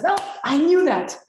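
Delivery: high, loud sarcastic resigned quip; mock self-fulfilled "I knew that". Voicing the inner critic to a webinar audience, high mock quip. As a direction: toss it off like a self-fulfilling prophecy. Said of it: "you say".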